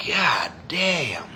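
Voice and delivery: breathed out under the breath; a hushed, disbelieving swear; whispered curse. Real, not acted. Muttering alone to the camera, a whispered curse.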